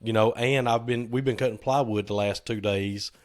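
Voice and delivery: a little hoarse from smoke and yelling; slightly worn, hoarse voice. Real, not acted. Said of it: "a little hoarse sounding".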